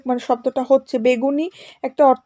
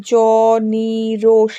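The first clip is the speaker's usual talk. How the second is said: "জ, নি, রোষ" as long separate syllables; isolated syllables; 2 semitones lower than usual. Shown as a demonstration. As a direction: pause after each piece of "জ, নি, রোষ". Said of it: "কিভাবে আমরা উচ্চারণ করছি". ("জ, নি, রোষ" আলাদা আলাদা দলে)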